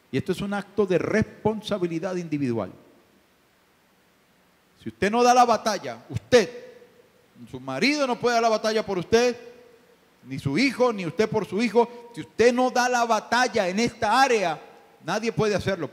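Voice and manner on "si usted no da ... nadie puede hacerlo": loud, raised pulpit voice; fervent preaching. Acted. Pastor urging personal responsibility, fervent preaching. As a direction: press the point on each listener.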